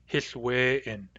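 Hith we in, said slowly and softly; Nuu-chah-nulth phrase. Shown as a demonstration. Teacher isolating Hith we in for the class. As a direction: Hith we in picked out on its own. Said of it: "To me, it's hearsay".

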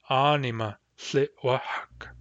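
Anima Tlitwahak said slowly and clearly; slow model phrase. Shown as a demonstration. Teacher modelling a phrase for practice, slowly. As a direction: give each word of Anima Tlitwahak space. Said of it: "for example".

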